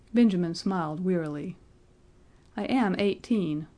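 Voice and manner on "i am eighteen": slow, stress on am; firm repeat. A narrator's reading. Benjamin insisting to the registrar, slow and firm. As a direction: lean on "am", slow and steady. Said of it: "he repeated".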